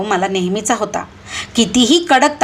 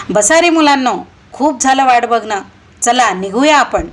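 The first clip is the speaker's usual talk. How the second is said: calling out; 3 semitones higher than usual. Acted. Teacher calls children onto bus.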